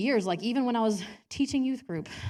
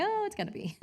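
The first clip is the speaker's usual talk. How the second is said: God amused; 13 semitones higher than usual. Retold or imitated. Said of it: "And God's like".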